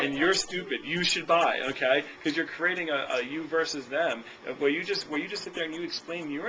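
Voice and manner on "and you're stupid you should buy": a mock-combative rep insulting the customer, slightly louder. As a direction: pick a fake fight with the buyer, half joking. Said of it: "you don't wanna create a battle with the customer".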